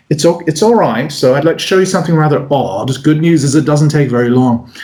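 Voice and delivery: mildly understated British patter. Acted. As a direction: lightly imitate a reserved British performer. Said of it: "a quieter".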